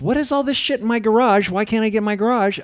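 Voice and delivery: high, baffled outburst; mock bewildered. Host finding his garage full, mock bewildered. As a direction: sound stunned at the mess.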